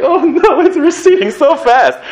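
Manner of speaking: high, loud, squealed mock panic over a receding hairline; playful fake alarm. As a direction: shriek it like you just spotted a bald patch. Worried about a receding hairline.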